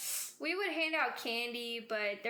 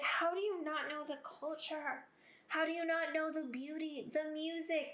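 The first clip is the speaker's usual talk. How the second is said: indignant disbelief; 3 semitones higher than usual. Retold or imitated. Acts out indignation at peers' ignorance.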